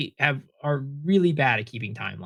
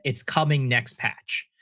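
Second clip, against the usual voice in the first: slow, drawn-out mock promise; slower than usual. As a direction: spell out the empty promise slowly. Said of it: "But they never said".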